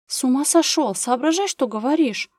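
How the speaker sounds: outraged at the fake-marriage idea; hissed outrage. A narrator's reading. Anzhela to Gera, outraged by his proposal. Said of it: "прошипела Анжела".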